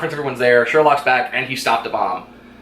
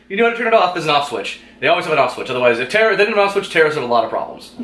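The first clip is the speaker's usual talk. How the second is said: high mocking Sherlock; 5 semitones higher, faster than usual. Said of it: "he's like".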